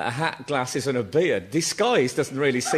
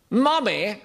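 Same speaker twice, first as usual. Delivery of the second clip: put-on child's call, raised and rising; calling out to mummy; 6 semitones higher than usual. Small boy calls to his mother at the front of the bus, raised and rising.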